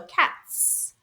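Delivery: "cats" ending in a drawn-out voiceless s; unvoiced ending. Shown as a demonstration. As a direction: let the end of "cats" hiss. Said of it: "They match together".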